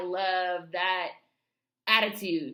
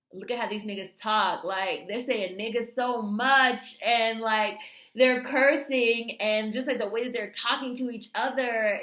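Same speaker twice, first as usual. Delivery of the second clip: raised pitch and volume, reliving the amazement; amazed reaction; 4 semitones higher, 6 dB louder than usual. Retold or imitated. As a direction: marvel out loud, hitting key words hard. Acts out own amazed audience reaction.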